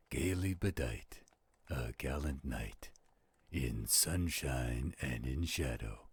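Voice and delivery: measured, rhythmic reading of a poem; poem recitation. Acted. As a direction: recite it like a storyteller by the campfire. Recites Poe poem to partner.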